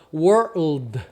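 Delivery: slow "world" with R, loose L, mute D; drawn-out "world" with curled R into L; loose, relaxed sounds. Shown as a demonstration. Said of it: "Você pode falar soltinho".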